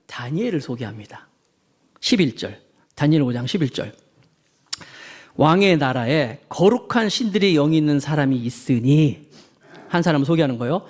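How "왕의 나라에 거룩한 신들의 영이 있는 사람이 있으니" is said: scripture reading. Acted.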